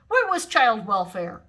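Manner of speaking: loud slow demand; indignant demand. A narrator's reading. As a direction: insist on justice. Imogene indignant.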